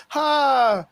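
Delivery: high-pitched, over-the-top heroic taunt; mock heroes' challenge. X-Men squaring up to the Hulk, mock challenge.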